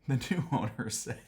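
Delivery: starting to crack up, line cut short; breaking into laughter. Real, not acted. Telling viewers what new owners said, breaking into laughter. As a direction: begin saying it, then dissolve into laughter. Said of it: "I mean, it's not funny".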